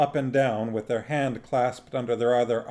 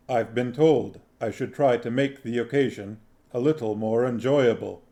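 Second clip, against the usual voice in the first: solemn, measured grim reaper; deliberate, grave Death speaking; Death's voice; 3 dB louder than usual. Acted. Death's voice in the story.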